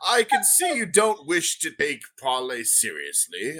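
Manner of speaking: put-on a prim old gnome merchant, unhurried. GM voicing the gnome.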